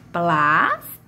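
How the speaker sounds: "Plástico" split into "plás", "ti", "co" with pauses; long, rising "plás", then separate short beats in "Plástico"; syllables separated. Shown as a demonstration. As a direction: say "Plástico" one syllable at a time. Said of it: "a minha primeira sílaba da palavra plástico".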